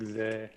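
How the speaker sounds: "Ze" with an open e instead of a long ee; "Ze" with the vowel of bed, left unfinished; mispronunciation of Zeke. Shown as a demonstration. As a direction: say "Ze" as the misread start of the name. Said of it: "Not like".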